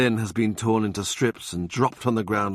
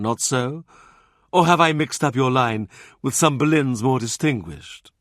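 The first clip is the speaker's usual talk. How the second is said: lightly higher, sly jibes; mocking Cardinal; 5 semitones higher, 3 dB louder than usual. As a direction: needle him with false courtesy. Wolsey taunting ancestry.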